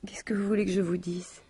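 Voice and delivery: a helpless whisper, breath only; a stunned widow whispering to the inspector. Acted. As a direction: barely voice it, lost. Widow answers questions, shaken.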